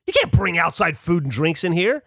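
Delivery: mock-angry guard, slightly forceful; imitated aggressive telling-off; aggressively angry. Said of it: "aggressively angry at us".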